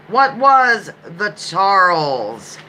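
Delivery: slow, savoring the Charles; relishing the name. Shown as a demonstration. Trivia host savoring the ship's name, slowly. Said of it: "I just like saying the Charles".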